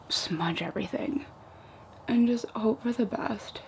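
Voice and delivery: soft, whispered confession; hushed, half to yourself; near-whisper. Real, not acted. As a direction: drop to a whispery aside. Confiding while doing her makeup.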